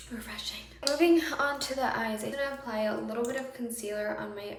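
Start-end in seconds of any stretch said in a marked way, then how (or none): 0.1-0.6 just swallowed water; after a sip. Real, not acted. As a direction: speak right after drinking. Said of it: "have a sip of water".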